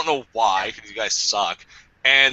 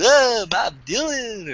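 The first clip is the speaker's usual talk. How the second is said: mock busker; 8 semitones higher, slower than usual. Imitating a busker.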